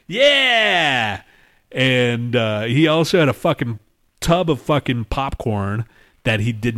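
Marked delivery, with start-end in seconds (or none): 0.1-1.2 high, goofy forced laugh; hammed-up ho ha ha; mock dumb laugh. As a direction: imitate an annoying guy laughing. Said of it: "and then he'd be like".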